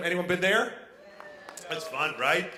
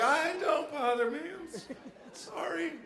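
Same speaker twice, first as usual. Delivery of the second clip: Democrats; 8 semitones higher, 4 dB quieter than usual. Retold or imitated. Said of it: "They're like".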